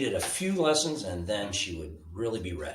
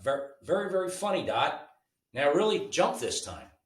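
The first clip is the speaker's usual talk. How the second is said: teasing brother; 7 semitones higher than usual. A narrator's reading. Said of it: "Carl laughed".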